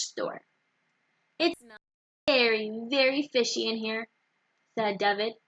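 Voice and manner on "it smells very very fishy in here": pinched nose voice; holding nose. Acted. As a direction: talk with your nose held shut. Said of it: "holding his nose".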